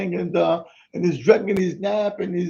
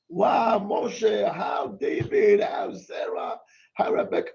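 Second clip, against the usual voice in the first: excited praise; slower than usual. Shown as a demonstration. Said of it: "Emphasize when he does".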